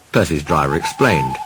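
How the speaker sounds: usual speaking voice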